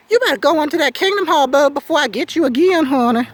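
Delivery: mock-sweet sassy scolding; sassy taunt. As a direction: shoo them off like a sassy auntie. Sassy taunt at lingering witnesses.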